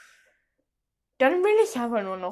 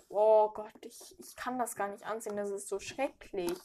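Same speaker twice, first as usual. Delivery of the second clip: ordinary talk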